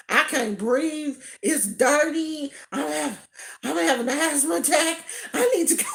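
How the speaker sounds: badly faked tearful panic; fake crying. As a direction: lay the fake asthma on thick. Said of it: "I put it on so thick".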